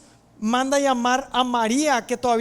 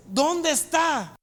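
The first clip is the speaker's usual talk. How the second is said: higher, drawn-out angry demand; furious demand; 4 semitones higher, much slower than usual. Acted. Jesus, furious at the scene, asks for Lázaro, angry demand. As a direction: demand it slowly, with acted anger. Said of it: "Y que en furioso le dice".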